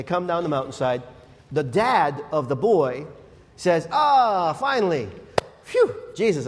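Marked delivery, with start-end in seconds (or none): 3.9-6.5 relieved sigh. Acted. Relieved dad greeting Jesus.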